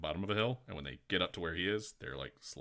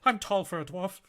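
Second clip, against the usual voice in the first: high, laughing echo of the line; laughing repeat; 12 semitones higher, 9 dB louder than usual. Real, not acted. GM laughing while echoing the player's dwarf line.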